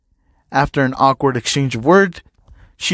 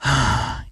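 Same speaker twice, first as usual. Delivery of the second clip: sigh; 5 semitones lower, 5 dB quieter than usual. A narrator's reading.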